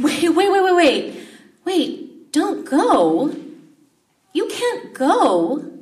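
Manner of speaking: high, loud, pleading panic; panicked disciples. Acted. Disciples pleading with Jesus not to leave, high panicked cries. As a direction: beg him not to leave, voice climbing in alarm.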